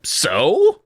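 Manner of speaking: mildly angry question; angry cry. A narrator's reading. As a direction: throw it back angrily. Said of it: "I cried angrily".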